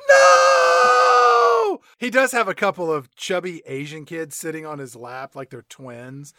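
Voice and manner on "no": very high, loud drawn-out no; shocked cry. Real, not acted. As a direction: cry out in disbelief. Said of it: "shocked reaction".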